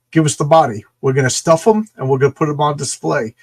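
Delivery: loud, pushy carnival barker; greedy carny loudly claiming the body; gruff demand. Retold or imitated. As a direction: bark the demand at him. Carney folks demanding the body.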